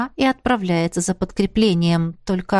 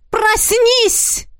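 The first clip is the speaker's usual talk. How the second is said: much higher ringing shout; ringing cry; 13 semitones higher, 3 dB louder than usual. A narrator's reading. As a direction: ring out to shatter the void. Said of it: "Звонкий голос". (звонкий крик)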